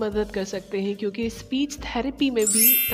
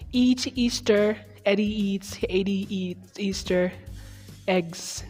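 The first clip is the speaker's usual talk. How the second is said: slow syllable by syllable. Shown as a demonstration. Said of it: "Let's try again".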